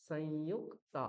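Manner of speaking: সংযুক্তা with ক held double; যুক্তবর্ণ দ্বিত্ব; doubled ক. Shown as a demonstration. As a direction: lean on the ক in সংযুক্তা. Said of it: "দুবার উচ্চারণ করতে হবে".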